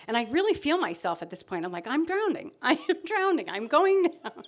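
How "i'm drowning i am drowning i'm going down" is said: laughing mock panic. Retelling her drowning panic with laughter.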